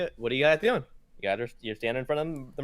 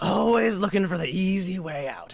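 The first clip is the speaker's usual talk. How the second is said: loud, higher scolding; exasperated ship captain; 9 semitones higher, 10 dB louder than usual. Acted. Captain scolds visitors asking for a portal, loud exasperation. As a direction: burst out in fed-up complaint.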